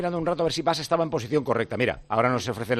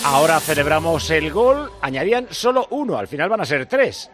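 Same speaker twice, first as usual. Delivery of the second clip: raised, delighted cheer; excited; 3 semitones higher, 5 dB louder than usual. Real, not acted. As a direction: celebrate the goal out loud. Co-commentator cheering goal.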